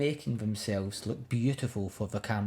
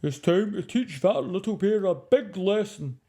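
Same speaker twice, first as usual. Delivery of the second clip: a touch higher, plotting voice; scheming animals; 6 semitones higher, 4 dB louder than usual. Acted. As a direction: conspire against the bear.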